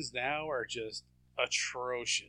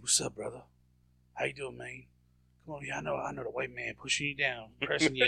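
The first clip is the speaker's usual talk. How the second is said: lightly put-on Black-American accent; imitating Seagal's put-on Black-American accent, near usual pitch; mock Black-American accent; 3 dB quieter than usual. Mocking Seagal talking to a black person, light put-on Black-American accent. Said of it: "a black person, he's like".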